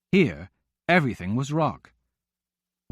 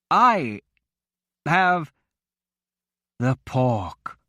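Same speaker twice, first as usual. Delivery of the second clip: talking through a mouthful; words round a bite of food; mouth full; 3 semitones higher, much slower than usual. A narrator's reading. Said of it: "around the food in his mouth".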